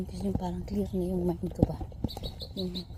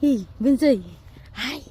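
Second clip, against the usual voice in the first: calling out; 3 semitones higher, 10 dB louder than usual. Real, not acted. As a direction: call the little one loudly. Calling the baby loudly.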